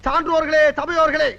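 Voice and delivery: grand stage speech to the crowd; political oration. Acted. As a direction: orate like a party leader. (மேடைப் பேச்சு பாணி)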